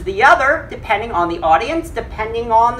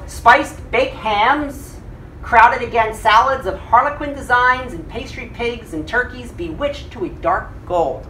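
literary reading aloud; 2 semitones higher than usual. Acted. Teacher reading the party feast aloud, relishing. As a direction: savor each dish in the list.

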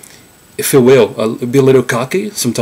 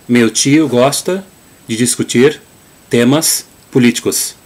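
Gaúcho accent. Shown as a demonstration. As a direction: say it like a Gaúcho from the south. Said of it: "using the Gaúcho pronunciation or Southern".

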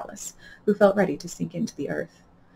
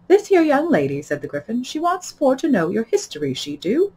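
Gryphon; 8 semitones higher, 5 dB louder than usual. A narrator's reading. Gryphon voiced in dialect.

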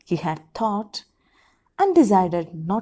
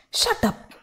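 yelled; 8 semitones higher than usual. A narrator's reading. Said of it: "Nomita yells".

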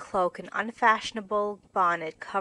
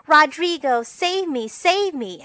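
hammed-up stage cry, louder and higher; melodramatic scream; 7 semitones higher, 7 dB louder than usual. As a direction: wail it like a damsel in a cheap melodrama. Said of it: "with a melodramatic scream".

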